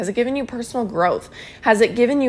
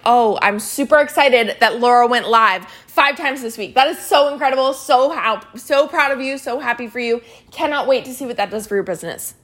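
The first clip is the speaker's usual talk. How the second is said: lively, enthusiastic praise; excited recognition. Shown as a demonstration. Coach praising Laura for going live, super excited. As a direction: gush with pride for a teammate. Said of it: "Can you see how different that is".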